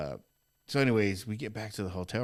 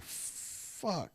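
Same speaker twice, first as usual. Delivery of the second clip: whispered curse; 8 semitones higher, 10 dB quieter than usual. Retold or imitated. Retold horror at raw skin.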